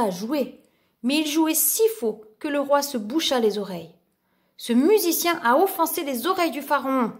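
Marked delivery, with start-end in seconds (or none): 4.6-7.1 indignant shout, a bit raised; a hint of an outraged vizir; vizir's mild shout. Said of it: "hurla le vizir".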